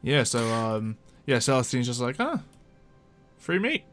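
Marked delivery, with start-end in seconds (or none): none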